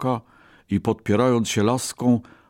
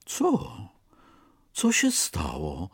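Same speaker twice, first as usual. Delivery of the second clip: astonished exclaim; 4 dB quieter, slower than usual. A narrator's reading. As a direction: blurt it out in total amazement. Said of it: "wykrzyknął zdumiony zajączek".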